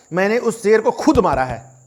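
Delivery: "खुद" punched before "मारा"; stress on खुद. Shown as a demonstration. Teacher shows the hunter's claim, stress on "खुद". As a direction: land firmly on "खुद". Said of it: "मैंने वहां पर क्या बोला".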